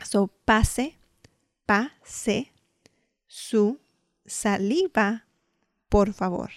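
"pase", "su", "saliva" spaced out word by word; slow Spanish demo. Shown as a demonstration. Teaching the phrase to dental staff, slow and spaced. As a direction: pause after each word of "pase su saliva, por favor". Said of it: "you would say su".

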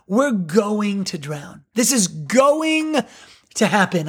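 slow, matter-of-fact, no panic; flat statement. Retold or imitated. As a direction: state the doom as plain fact, slowly. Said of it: "they're just stating it".

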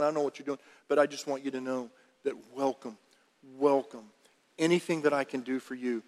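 embrace him with words; tender welcome. Acted. Brother welcoming prodigal tenderly.

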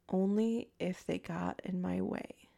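quoting him slowly in a cold, even monotone. Retold or imitated. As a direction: imitate a cold killer's level delivery. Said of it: "cold, monotone voice".

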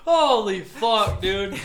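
loud slow exclamation; quoting a friend. Retold or imitated. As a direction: drag out the shock, laughing. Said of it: "He said".

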